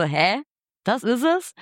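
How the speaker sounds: retold baffled question, pitch climbing at the end; puzzled disbelief. Singer doubting the producer's verdict on the name, puzzled disbelief. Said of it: "Und ich war so".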